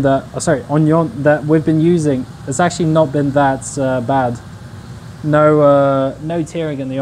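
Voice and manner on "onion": onion with nasal French vowels, "ɑ̃njɔ̃n"; French accent onion. Pretend. Streamer jokingly corrects to a French onion, mock French accent. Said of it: "Why do you say onion in French accent?".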